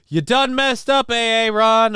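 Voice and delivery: high mock scold from the meme; sing-song teasing of A A Ron; a hammed-up meme line; meme quote. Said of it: "Of course, the meme".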